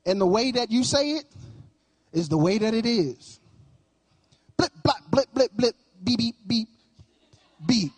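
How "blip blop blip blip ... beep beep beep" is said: mock censor bleeps.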